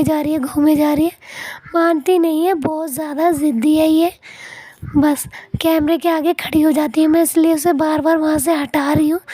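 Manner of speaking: voice-over with a sore, hoarse throat. Real, not acted. Video voice-over with a sore throat, hoarse and straining. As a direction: push the narration out through a worn-out throat. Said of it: "बहुत ज़्यादा मेरा गला बैठ गया है".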